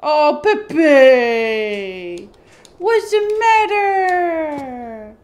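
long drawn-out pet-talk coo; cooing concern. Real, not acted. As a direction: draw each phrase out, fussing over a pet.

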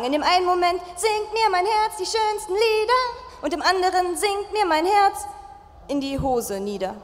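rhythmic poetry slam delivery. Acted. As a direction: perform the rhymes with a beat. Performs a poetry slam text. (Slam-Vortrag mit Rhythmus)

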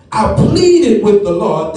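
pleading emphasis on "pleaded"; stress on pleaded. Shown as a demonstration. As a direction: lean on "pleaded" with weight. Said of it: "that word pleaded means to call to one side".

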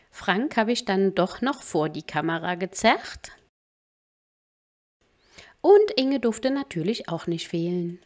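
soft, even recap voice-over; quiet vlog voice-over; voice-over narration. Acted. Voice-over recap between live clips.

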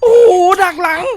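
stunned by the ambush; ตกใจ ถูกดักหลัง; shocked. Real, not acted. Granny ambushes him from behind.

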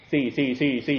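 "ซี่ ซี่ ซี่ ซี่" with one identical s; all one sound. Shown as a demonstration. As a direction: repeat "ซี่" without telling the letters apart. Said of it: "อย่างเดียวเลย".

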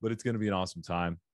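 breathless and rushed; talking while winded; out of breath. Real, not acted. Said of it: "I think I'm out of breath".

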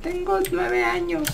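lightly faked child, drawn out; fake kid voice. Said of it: "Debes hacer una voz fingida".

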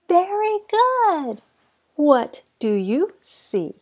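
put-on reading to a toddler. Teaching toddler shapes.

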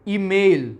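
ઈમેલ with a long ay in mail; correct email. Shown as a demonstration. Teacher giving the right ઈમેલ to the students. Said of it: "ઈમેલમાં નહીં".

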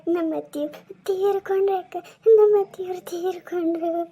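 acted tearful news of a death, a touch of crying; crying on the phone. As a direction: break the news through tears. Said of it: "ಎದಕ್ ಅಳಕತ್ತಿ". (ಫೋನಿನಲ್ಲಿ ಅಳುತ್ತಾ ಸುದ್ದಿ ಹೇಳುವುದು)

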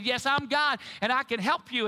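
lightly voiced God answering from heaven; booming voice of God. Preacher voicing God answering the man, mild booming. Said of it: "a booming voice came from heaven".

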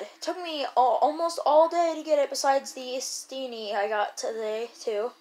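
breathless, gasping between words; out of breath. Real, not acted. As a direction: talk while winded. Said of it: "I was running out of breath there".

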